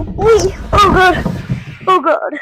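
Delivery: excited yelps down the slide; going down a tube slide. Real, not acted.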